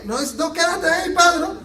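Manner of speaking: hammed-up Jesus holding Peter back; mock contrary Jesus. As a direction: tease the crowd with the wrong version of Jesus. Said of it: "Jesús le dice".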